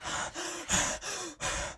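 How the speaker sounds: short, soft breathy puffs; acted panting. Shiro runs to the gate after Saber, panting. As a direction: pant softly as if running.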